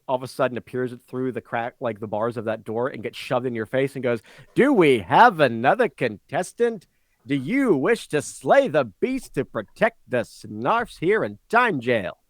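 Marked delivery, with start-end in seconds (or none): 4.6-12.2 hint of a game show host, slightly louder; announcer. Microphone asking the player to fight, lightly hammed announcer. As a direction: invite the next challenger like an arena host.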